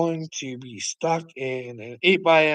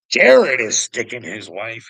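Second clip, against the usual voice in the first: louder repeat; 4 semitones lower, 8 dB louder than usual. Real, not acted. Repeating the chat message to viewers, lower and louder.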